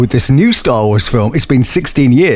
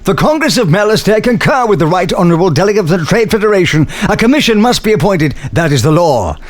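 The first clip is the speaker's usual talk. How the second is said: very posh, regal British senator voice; higher upper-crust voice, proclaiming formally; Axe Moe; 7 semitones higher than usual. Acted. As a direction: deliver it as a stately English alien dignitary. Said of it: "my character said its first line".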